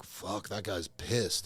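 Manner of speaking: imitated remark. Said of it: "people across the room are like".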